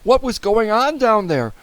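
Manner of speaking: high, urgent questions; anxious wondering. A narrator's reading. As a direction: ask with mounting worry. Boy narrator wonders anxiously.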